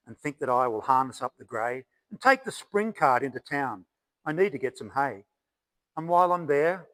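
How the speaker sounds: measured storytelling verse, openings lifted and endings dropping; poem recital. Acted. Poet speaks as great-grandfather hearing of Ned Kelly, poem recital. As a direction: recite it in a steady ballad rhythm.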